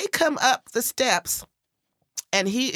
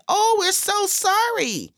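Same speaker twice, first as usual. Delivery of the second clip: horrified apology; 10 semitones higher, 3 dB louder, slower than usual. Retold or imitated. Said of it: "look up at me in horror".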